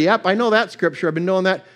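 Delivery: mock know-it-all familiarity; offhand familiarity. Shown as a demonstration. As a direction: rattle it off like old news. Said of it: "I wasn't saying with a familiarity".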